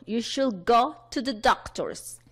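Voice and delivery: slow, measured classroom example; deliberate language-teacher reading; model sentence. Shown as a demonstration. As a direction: spell it out word by word for learners.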